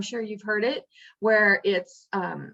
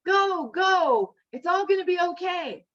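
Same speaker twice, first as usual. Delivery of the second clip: adamant refusal; 3 semitones higher than usual. Retold or imitated. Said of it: "this man is just so adamant".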